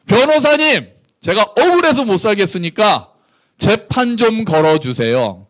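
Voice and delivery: high, overly polite plea to a lawyer; polite pleading. Pretend. Micah pleading politely to his lawyer, high and humble. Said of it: "존댓말 안 쓰셨겠죠?".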